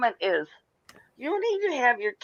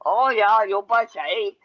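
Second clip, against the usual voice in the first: put-on Yooper accent; 2 semitones lower, 3 dB louder than usual. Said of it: "I speak Yooper".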